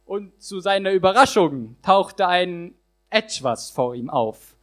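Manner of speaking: rhythmic rhyming performance; slam poem recitation. Acted. Poet performing his slam text to the audience, rhythmic. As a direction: drive the rhymes home for the crowd.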